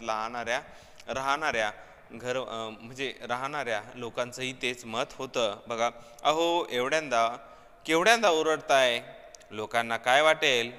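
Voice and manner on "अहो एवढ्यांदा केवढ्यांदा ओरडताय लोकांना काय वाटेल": loud, scolding wife telling off her husband; wife scolding her husband loudly over his noise. Retold or imitated. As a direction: snap at him for making a racket. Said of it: "अशी दमदाटी बायकोशिवाय कोण करणार?".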